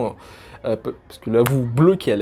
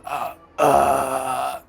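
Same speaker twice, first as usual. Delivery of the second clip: throat sound demo. Shown as a demonstration. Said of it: "Donc vous faites ce son-là".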